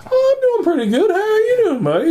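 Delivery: high-pitched mock-casual reply; cheery small talk. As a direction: act out chirpy hellos over the din. Cheery retold small talk amid chaos.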